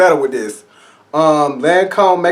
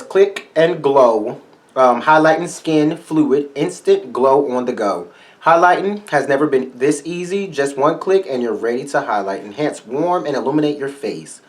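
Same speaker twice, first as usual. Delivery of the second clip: mock product read; reading the label. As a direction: read the blurb like an ad. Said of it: "I'll read the, results to y'all".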